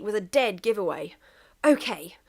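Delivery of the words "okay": searching frantically. Acted. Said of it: "said England".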